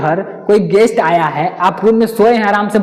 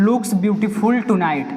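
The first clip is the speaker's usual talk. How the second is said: slow question read; much slower than usual. Shown as a demonstration. Reads question sentence slowly.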